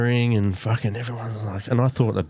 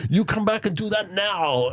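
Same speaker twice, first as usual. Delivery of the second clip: put-on Italian accent; 13 semitones higher than usual. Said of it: "this Italian fucking accent".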